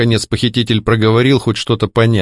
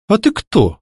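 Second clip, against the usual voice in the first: higher, puzzled surprised question; 9 semitones higher than usual. Acted. Heroine surprised by the ghost's projection, startled question. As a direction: ask in genuine surprise. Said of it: "удивлённо поинтересовалась я".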